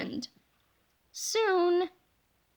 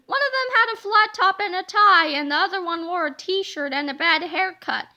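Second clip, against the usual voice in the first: lightly voiced toilet monster; 6 semitones higher, 5 dB louder than usual. Toilet monster describes the kids.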